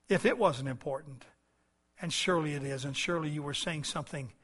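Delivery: subdued, conversational prayer; spoken prayer. Real, not acted. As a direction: address God quietly and sincerely. Leads closing prayer.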